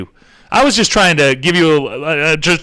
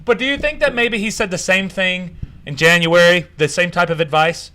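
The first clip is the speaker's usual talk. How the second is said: mock naive; 3 semitones higher than usual. Real, not acted. Scene: mocking Fauci's repeat advice, faux-innocent. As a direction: play dumb to mock the advice. Mock-dumb sarcastic questioning.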